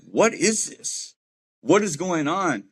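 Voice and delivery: baffled at the tattooed strangers; confused. Retold or imitated. Newcomer at the home asking what's going on, bewildered. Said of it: "And I'm like".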